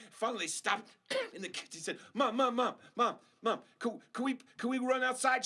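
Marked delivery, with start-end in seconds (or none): 2.1-5.5 high, loud repeated whine of Mom; nagging kids. Acted. Kids nagging mom to run outside, high and loud. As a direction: pester mom like an impatient child.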